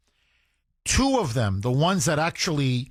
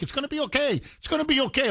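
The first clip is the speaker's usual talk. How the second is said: higher, soothing mock comfort; mock consoling; 9 semitones higher, much faster than usual. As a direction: mimic cops coddling the attacker. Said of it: "You know, like".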